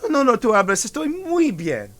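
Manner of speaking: the little robot lights up; delighted robot. A narrator's reading. Miguel cheerful robot.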